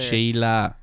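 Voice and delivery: one-word Australian impression; Australian accent. Friend practising Australian on one word, Australian accent. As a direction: say it with an Australian twang. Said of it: "you can only do Sheila".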